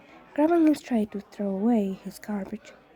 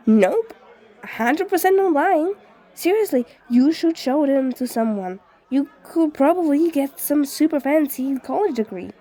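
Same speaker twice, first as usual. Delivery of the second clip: light laugh, then high and sure; chuckling, a bit higher; laughing insistence; 5 semitones higher, 4 dB louder than usual. Acted. Ghost amused, insistent.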